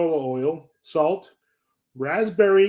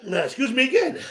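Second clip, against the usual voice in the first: laughing apology; 8 semitones higher than usual. Real, not acted. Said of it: "I keep inhaling the powder".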